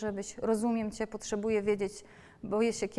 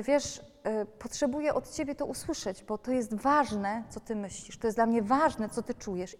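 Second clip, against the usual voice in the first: gentle, sincere. Retold or imitated. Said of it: "I ja mówię".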